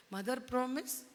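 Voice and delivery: rising on promise, asking; demanding promise. Acted. Delilah makes Samson swear, coaxing. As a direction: press for the promise with a lift on promise.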